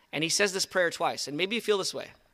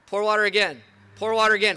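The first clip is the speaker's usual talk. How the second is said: loud command; 2 semitones higher, 6 dB louder than usual. Acted. Elijah orders more water.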